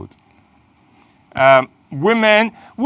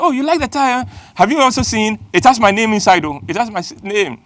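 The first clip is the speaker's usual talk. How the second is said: a hint of a proud man going soft; higher, pleased and puffed up; flattered big man; 5 semitones higher, faster than usual. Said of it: "the guy just goes soft and said".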